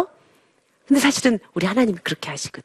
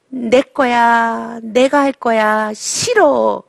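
drawn out, each word stretched; slow insistent child; much slower than usual. Acted. Child slowly insisting it is his own. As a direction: claim it slowly, stubbornly.

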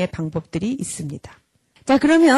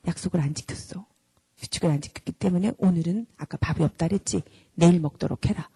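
calm firm parent; 4 semitones lower than usual. Shown as a demonstration. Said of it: "이래야 돼요".

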